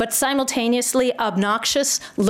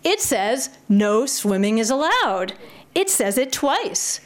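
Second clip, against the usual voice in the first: incredulous grandson; 2 semitones higher than usual. Acted. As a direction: object with a touch of disbelief. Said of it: "The grandson is incredulous".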